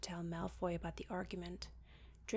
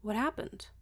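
curious; 6 dB louder than usual. Acted. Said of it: "slight curiosity".

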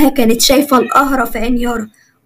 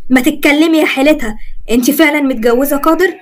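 angry; 4 semitones higher than usual. Acted. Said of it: "ومسكها بغضب".

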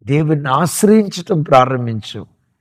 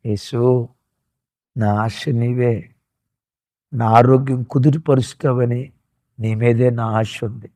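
softly spoken prayer. Shown as a demonstration. Preacher leads the congregation in a hushed prayer of hope. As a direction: lay each need before God gently. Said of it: "ఆ దేవుని వైపు చూసి".

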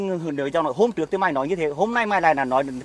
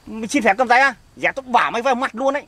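higher-pitched, indignant challenge; angry threat; 3 semitones higher, 3 dB louder than usual. Acted. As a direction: challenge him angrily, pitch raised. Chồng dọa người cầm tay vợ. (giọng dọa nạt, bực tức)

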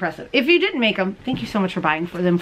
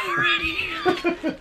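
laughing; 5 dB quieter, much slower than usual. Real, not acted. Laughs about forgetting the candy.

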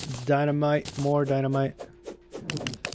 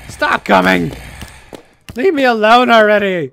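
loud, raised-pitch outburst at pestering enemies; exasperated yell; 5 semitones higher, 9 dB louder than usual. Real, not acted. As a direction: yell at them to back off, fed up. Player yelling at attacking enemies.

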